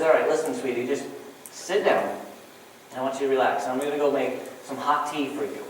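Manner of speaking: low, soft, mildly reassuring husband; soothing husband. Retold or imitated. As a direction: gently settle an upset wife, lightly acted. Husband soothing his upset wife.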